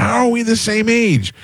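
high-pitched, mock-outraged disbelief; stunned retort, pitched very high; incredulous outburst. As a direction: replay your shock, voice shooting way up. Retelling own disbelief at stranger's age.

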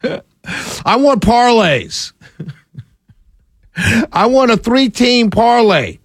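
laughing through the words. Real, not acted. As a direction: chuckle as you say it. Laughing while listing wants.

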